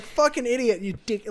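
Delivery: lightly voiced mum snapping at the TV; mum swearing.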